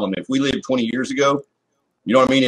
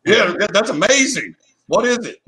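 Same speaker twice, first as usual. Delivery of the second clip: mock gushing; 8 semitones higher than usual. Mock parent praising child drawing.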